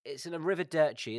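arrivederci said with an Italian lilt; arrivederci, rolled the Italian way; Italian goodbye. Real, not acted. Mate hears an Italian goodbye. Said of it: "Arrivederci? Is that how you pronounce".

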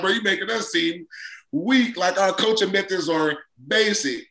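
high-pitched mock complaint; acted-out coach's dismay; exasperated coach. Acting exasperated coach to player.

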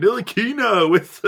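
high, slow Ntilikina with a stretched last A; long final A. Retold or imitated. Broadcaster praising Frank's defense, Ntilikina pitched high with a long final A. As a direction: call out Ntilikina, drawing the final vowel right out. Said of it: "putting, like, the long A at the end".

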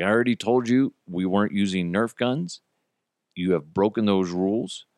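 stern dad tone, not yelling; firm, not happy. Retold or imitated. Dad scolding a guest kid for breaking rules, firm. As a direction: lay down the rules with restrained displeasure. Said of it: "that's the tone that I had in my voice".

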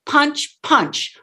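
"punch", break, "punch" as two equal hits; punched syllables. Shown as a demonstration. Coach showing how to enunciate, two separate punched beats on "punch". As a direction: hit each "punch" separately. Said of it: "both syllables".

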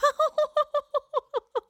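high, wavering hooting noise; imitated saxophone hoot. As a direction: mimic a saxophone with a long high toot. Mimics Teresa playing saxophone.

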